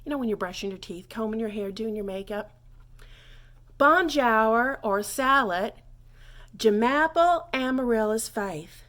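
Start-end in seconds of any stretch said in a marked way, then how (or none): 3.8-5.7 bonjour said slowly and loudly, drawn out; slow French greeting. Shown as a demonstration. Teacher drilling French greeting for learners. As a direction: stretch out bonjour or salad loud and slow. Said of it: "So just practice that".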